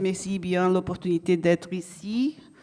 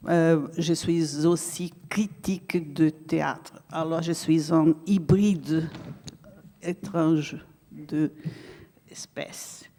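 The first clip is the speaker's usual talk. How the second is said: Brazilian accent in French; 4 semitones lower than usual. Real, not acted. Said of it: "mon français est un français brésilien".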